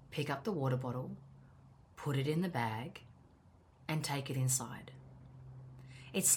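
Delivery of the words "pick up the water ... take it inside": calm firm instruction. Retold or imitated. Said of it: "I'll just say to myself".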